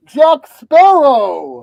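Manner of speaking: loud, slow drawn-out name; roaring announcement. Pretend. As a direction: boom it out like a herald. Announcing pirate character.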